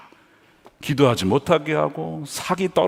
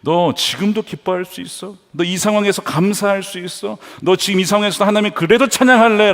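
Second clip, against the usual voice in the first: acted Goliath jeer, building in pitch; needling challenge that climbs higher; mocking taunt; 3 semitones higher than usual. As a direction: pile up scornful questions, rising as you go. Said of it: "라고 조롱하는 거예요".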